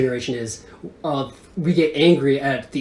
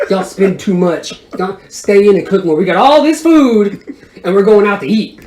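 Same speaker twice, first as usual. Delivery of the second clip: building to loud, raised exasperation; mock scolding; 4 semitones higher, 7 dB louder than usual. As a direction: scold the family, half laughing, getting louder. Child scolds family about budget.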